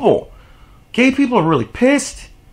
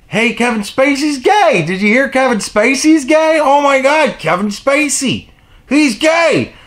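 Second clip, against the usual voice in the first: lightly voiced gossipy crowd, a bit higher; hammed-up rumor-mill excitement; mock gossip chatter; 5 semitones higher than usual. Gossiping crowd spreading news.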